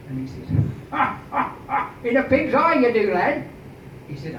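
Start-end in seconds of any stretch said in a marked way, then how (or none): 0.9-3.4 higher, louder scoffing ha ha; mocking laugh. Hasselberg scoffs at Underwood's claim, higher and louder. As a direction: laugh off the bluff.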